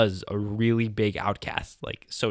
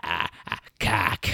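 lighter mock stammer; 3 semitones lower, slower than usual. Retelling the classmate's blurted word, lightly mocking. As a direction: toss off the stammer again, lighter. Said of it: "You're just like".

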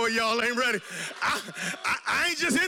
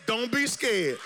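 voice of God; 3 semitones lower, slower than usual. Retold or imitated. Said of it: "And God says".

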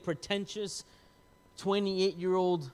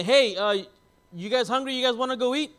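upbeat, higher and louder retold invite; casual invitation; 7 semitones higher, 6 dB louder than usual. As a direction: imitate a dad brightly calling everyone out to eat. Voices dad's cheerful casual invitation.

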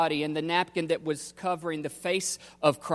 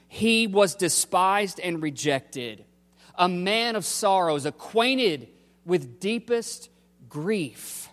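emphatic scripture reading; 3 semitones higher, 4 dB louder than usual. Acted. Preacher recites Isaiah's suffering servant to the congregation, declaiming. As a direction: proclaim the prophecy with weight. Reads prophecy with preaching force.

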